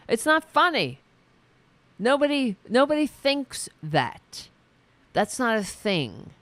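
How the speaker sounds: high, loud exasperated rant; nearly yelling that it isn't funny; rising outrage at a lame joke; indignant rant. Real, not acted. Ranting about the joke.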